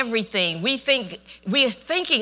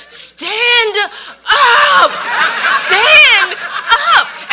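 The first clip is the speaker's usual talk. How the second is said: high, louder shouted command; retold shout; 11 dB louder, much slower than usual. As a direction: yell at her to get up. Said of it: "Everybody kept screaming".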